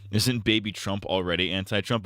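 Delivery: usual speaking voice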